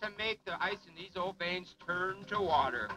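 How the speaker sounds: booming showman announcer. Acted. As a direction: sell it to the crowd like a showman. Announcer in pirate persona.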